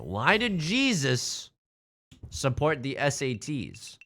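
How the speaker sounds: slow joke delivery. Acted.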